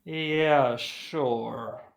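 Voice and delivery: drawn-out, unsure yes; hesitant agreement. Acted. Guard doesn't entirely believe it, hesitant agreement. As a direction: agree hesitantly, dropping off after the first word. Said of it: "hesitantly, like".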